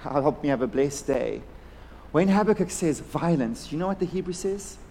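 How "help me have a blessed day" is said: soft, low, offhand little prayer; quietly murmured token prayer; mock easy-going prayer. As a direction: toss off a polite prayer with no urgency. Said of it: "some sort of soma soma prayer".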